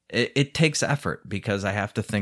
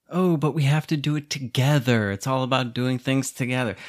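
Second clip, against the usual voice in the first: a hint of a whiny girlfriend voice, pitched up; mocking the women; 2 semitones higher than usual. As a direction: lightly parody her pleading. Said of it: "these fucking broads won't stop".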